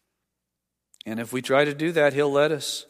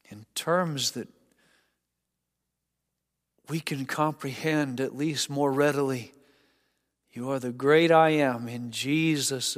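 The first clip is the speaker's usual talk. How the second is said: closing prayer. Acted. Pastor leading the congregation in closing prayer, hushed and reverent.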